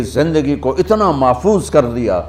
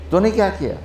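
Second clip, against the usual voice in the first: higher, scornful jab; mocking taunt; 5 semitones higher, 4 dB quieter, faster than usual. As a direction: accuse her with a sneer. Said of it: "دوسرا طنز".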